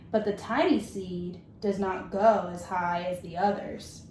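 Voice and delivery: gentle, measured storybook reading; reading to children. Acted. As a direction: read it like story time for a class. Teacher reads picture book aloud.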